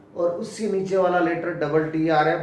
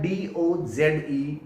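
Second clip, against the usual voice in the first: slow spelling; much slower than usual. Shown as a demonstration. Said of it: "ये नीचे वाला है".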